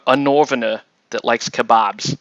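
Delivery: "northerner" in movie-British, th turned to v; Guy Ritchie accent. Retold or imitated. Player tries the Guy Ritchie movie accent on "northerner", British th-fronting. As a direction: imitate film British on "northerner", saying it "norvener". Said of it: "the accent from all the Guy Ritchie movies".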